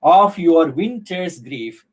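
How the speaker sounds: slow, measured scansion of a line; scanned verse line. Shown as a demonstration. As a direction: stretch OF, WINTER'S and GRIEF to show the rhythm. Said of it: "in that way we can understand it".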